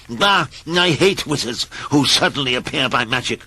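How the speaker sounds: cheeky, scornful complaint; rude grumbling. Acted. Mister Grumble rudely scolds the wizard, scornful. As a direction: sneer it at the wizard. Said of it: "had the nerve to say".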